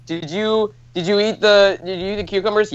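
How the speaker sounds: nagging parent checking up on her son; questioning mom. Retold or imitated. Mom asks over Skype about the cucumbers, lightly acted questioning. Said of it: "and she's like".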